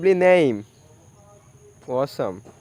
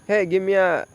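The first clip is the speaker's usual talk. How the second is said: put-on British accent; faster than usual. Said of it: "it could be a British".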